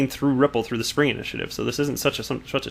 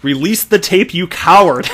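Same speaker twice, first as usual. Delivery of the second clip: loud mock shout; all caps shout; 5 semitones higher, 7 dB louder than usual. Reading the all-caps tweet aloud, a mock shout. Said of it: "here it is in all caps".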